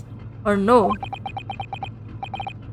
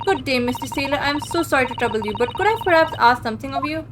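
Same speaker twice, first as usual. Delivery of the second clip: polite try; 2 semitones higher than usual. Pretend. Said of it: "let me try instead".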